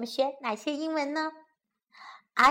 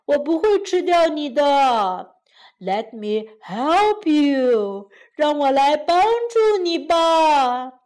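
sly crocodile; 4 dB louder than usual. Acted. Crocodile voiced in story.

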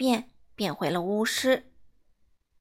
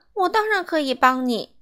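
hasty offer; 5 semitones higher, 4 dB louder than usual. Acted. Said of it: "他慌忙叫道".

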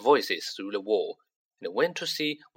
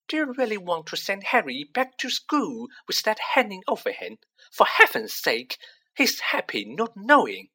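shrill; 9 semitones higher than usual. Acted. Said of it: "said Missus Weasley shrilly".

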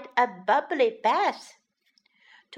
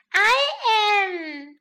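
sweet; 10 semitones higher, 6 dB louder than usual. Acted. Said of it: "smiling sweetly".

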